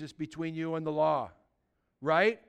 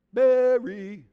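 Mary called out higher and louder, falling; 3 semitones higher, 6 dB louder than usual. Shown as a demonstration. Preacher shows Jesus calling Mary by name, calling out loud. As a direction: call Mary out, high and loud. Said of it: "a special way of saying each one of their names".

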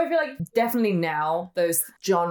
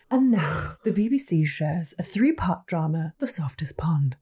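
posh drama announcer voice, hushed at the end; mock BBC announcer. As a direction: introduce a dull British drama like a continuity announcer. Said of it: "it's like".

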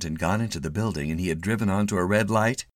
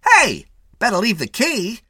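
cocky attendant; 8 dB louder than usual. A narrator's reading. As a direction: take over with insolent ease.

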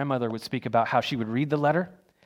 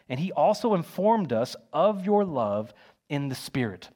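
scripture reading. Acted. Preacher reading Colossians to the church, measured and steady. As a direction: read it out steadily, each phrase weighed.

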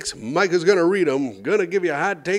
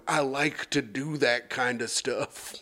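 soft, slow, dazed; groggy quiet; 9 dB quieter, slower than usual. Retold or imitated. Patient just out of anesthesia answering nurse, drugged mumble. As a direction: mumble it like you're still drugged. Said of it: "I vividly remember going".

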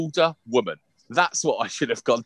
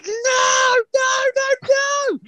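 imitating a child's shrieking no, much higher and louder; child screaming; 5 dB louder, much slower than usual. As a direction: screech the no's like a kid refusing to budge. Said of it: "she's like screaming".

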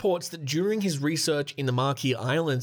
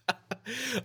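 laughing it off; breaking into laughter; 8 semitones higher, 7 dB quieter than usual. Real, not acted. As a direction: giggle cutting the line short. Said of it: "I can't do the accent".

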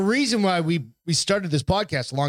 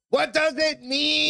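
mock drunk yell; 11 semitones higher, slower than usual. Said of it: "Do you remember yelling".

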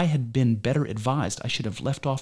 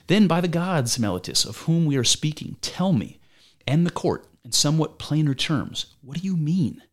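Socrates pressing hard; 5 semitones higher than usual. Acted. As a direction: demand a plain answer in front of the court. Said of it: "Back to Socrates".

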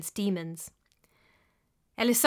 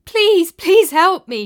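mild sob; 9 semitones higher, 12 dB louder, slower than usual. A narrator's reading. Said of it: "she sobbed".

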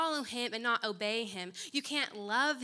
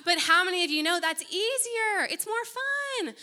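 laughing gush; 8 semitones higher, 9 dB louder than usual. Acted. Laughing, mock gushing.

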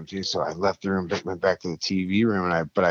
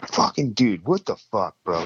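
higher-pitched exasperated outburst, retold; pissed off; 4 semitones higher than usual. Confronting his roommate over smoke in the room, pissed off. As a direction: replay confronting someone in disbelief and anger. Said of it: "I'm fucking pissed off".

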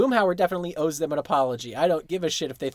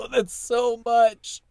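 high, loud, drawn-out exclamation; amused and overwhelmed; laughing disbelief; 6 semitones higher, 5 dB louder, much slower than usual. Real, not acted. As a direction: stretch it out through laughter. Laughing over the huge drum.

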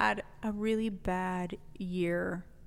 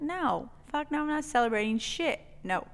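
mock angry refusal; 2 semitones higher, faster than usual. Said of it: "I was like".

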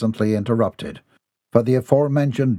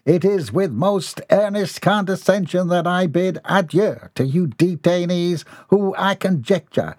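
high, pompous, condescending voice; haughty farewell; 7 semitones higher than usual. Acted. Mortimer bids the detainees a grand condescending farewell, high pitched. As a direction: look down your nose at them.

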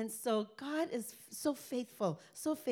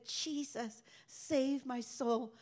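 retold cry; 4 semitones higher, slower than usual. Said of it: "And he cried out".

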